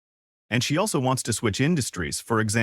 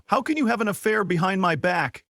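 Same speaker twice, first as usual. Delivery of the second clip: angry shout; 7 semitones higher, faster than usual. A narrator's reading. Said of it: "shouted at Chen Na".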